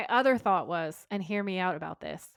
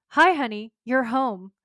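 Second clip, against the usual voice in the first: high, loud, hammed-up greeting; mock wifely greeting; 3 semitones higher, 7 dB louder than usual. Demon wife greets arriving husband, mock-sweet and loud. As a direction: call it out like a cheery mock housewife.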